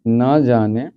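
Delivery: slow, stretched dictation; teacher dictating the answer, slow. Shown as a demonstration. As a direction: dictate each word slowly. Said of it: "तो लिखेंगे".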